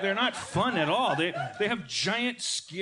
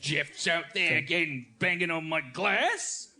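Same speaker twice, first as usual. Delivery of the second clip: slow mock Aussie, rising at the end; Australian accent; 2 semitones lower, slower than usual. Homeowner reporting Jeff the kangaroo, slow mock Australian accent. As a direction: draw it out in an Aussie twang. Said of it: "I can't do an Australian accent".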